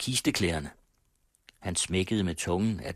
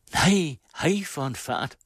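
high, slow calling out; called out; 9 semitones higher, 5 dB louder than usual. A narrator's reading. Friend in the doorway calling out after Silla, high and slow. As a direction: call after her from the doorway. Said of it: "råbte veninden".

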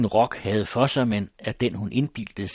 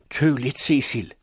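calling after; 5 semitones higher, 5 dB louder than usual. Acted. Older woman stops fleeing girl.

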